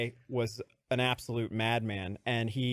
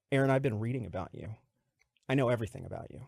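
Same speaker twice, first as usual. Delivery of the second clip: ominous boss voice; 4 semitones lower, faster than usual. Retold or imitated.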